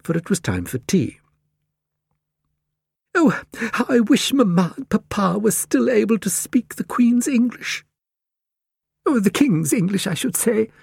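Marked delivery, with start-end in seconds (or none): 3.1-10.7 high-pitched lady wishing aloud; high, musing character voice, lingering on words; musing Cat Lady. A narrator's reading. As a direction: muse wistfully in a high lady's voice. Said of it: "mused the Cat Lady".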